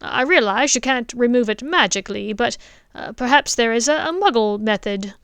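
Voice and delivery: father asks the headmaster eagerly; eager dentist. Acted. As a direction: push forward with an eager question. Richard pushes his idea.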